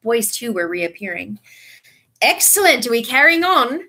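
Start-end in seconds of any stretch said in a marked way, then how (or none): 2.2-3.8 high, loud cheerful question; bright. A narrator's reading. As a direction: sound thrilled the party goes on. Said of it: "said Fred Weasley brightly".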